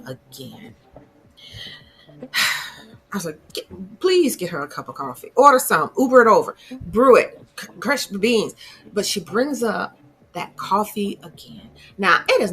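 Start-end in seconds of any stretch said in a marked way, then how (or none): 3.5-8.5 exasperated pleading. Real, not acted. Exasperated advice to Daniel.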